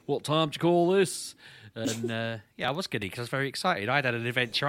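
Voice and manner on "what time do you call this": put-on slow, higher, stern old granddad voice; mock-grumpy granddad; granddad scolding. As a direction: scold a late-night sneak like a granddad. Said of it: "act like my, my granddad".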